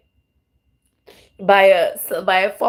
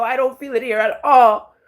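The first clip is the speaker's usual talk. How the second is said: crying. Real, not acted. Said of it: "that's why I'm crying".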